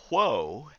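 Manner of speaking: mild mock yell with a swooping, drawn-out tune; retold yell. Boys riding the minister's horse, mock yell. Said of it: "would yell".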